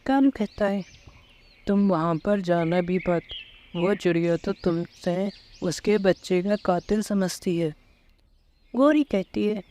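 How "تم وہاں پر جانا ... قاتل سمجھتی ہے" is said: a touch lower, tired husband; lightly voiced weary husband asking for tea; husband Kalu. Husband Kalu asking Gori for tea, slightly lower tired voice.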